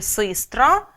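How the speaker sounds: "систра" with и in the unstressed first syllable; doubtful vowel. Shown as a demonstration. Teacher showing a doubtful vowel, "систра" said with и. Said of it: "де сумнівно він звучить".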